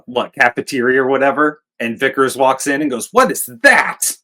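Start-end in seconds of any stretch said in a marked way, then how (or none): 3.1-4.2 louder, higher, slow drawn-out question; mock outburst. Vickers walks in on the cafeteria scene, mock outburst. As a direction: stretch it out loudly as a mock demand. Acting Vickers walking in surprised.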